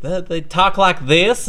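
high, loud, slow mock Southern; Southern accent imitation. Imitating girlfriend mimicking the locals, mock Southern accent. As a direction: drawl it out like an exaggerated Southerner. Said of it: "she was just like".

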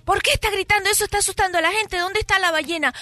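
lightly voiced officer, quick at first; questioning policeman. Policeman questions the drunk on the beach, lightly stern. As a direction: press the questions with mild reproach. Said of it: "viene un policía y le dice".

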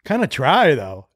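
slow, drawn-out verdict; just like this. Retold or imitated. Daughter judging the dog cookie, slow delivery. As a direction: stretch it out, understated. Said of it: "she goes, just like this".

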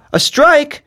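put-on very high child's voice, astonished; wide-eyed boy. A narrator's reading. Son Mulik repeats his mother's news, wide-eyed astonishment. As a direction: echo it high as an amazed little boy. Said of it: "repeated Mulik, his eyes opened wide".

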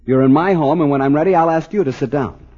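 indignant anger. Acted. Son snapping at police lieutenant.

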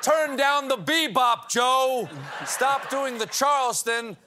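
put-on high cranky old-timer yelling; old prospector. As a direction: holler like a grumpy old codger. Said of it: "There, I did your little speech".

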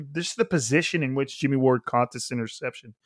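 short of breath while talking. Real, not acted. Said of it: "Sorry, I run out of breath there".

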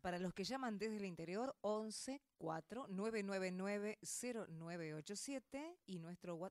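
raspy, scratchy throat; reading numbers through a hoarse throat. Real, not acted. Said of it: "tengo la voz rasposa".

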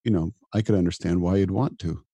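gentle, reassuring self-talk; kind inner voice. Retold or imitated. Doctor comforting himself at night, reassuring and kind. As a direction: soothe yourself like a friend would. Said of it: "show up with kindness towards myself".

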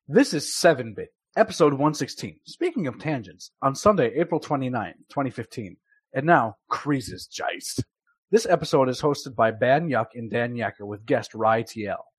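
goofy read with swapped first sounds; jumbled syllables. Shown as a demonstration. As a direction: swap the starting sounds of the names. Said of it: "One goofy, one real".

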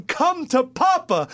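mock eager Cowboys. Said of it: "they're going".

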